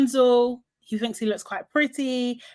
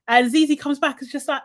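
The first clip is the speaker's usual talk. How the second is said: ordinary delivery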